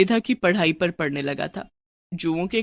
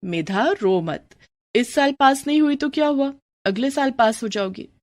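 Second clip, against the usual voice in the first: reassuring; 5 semitones higher than usual. Acted. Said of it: "समझाते हुए कहा".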